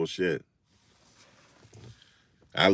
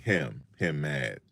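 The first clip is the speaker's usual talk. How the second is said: imitating the older dude; 2 semitones lower, much slower than usual. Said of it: "Talking to me".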